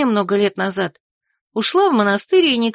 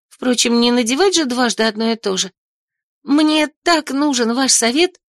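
chattering nonstop; 2 semitones higher than usual. Acted. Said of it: "тараторила она без остановки".

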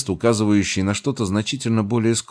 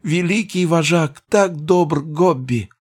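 high squeaky goblin voice; gushing goblin, pitched way up; 10 semitones higher, slower than usual. Acted. Goblin praising master.

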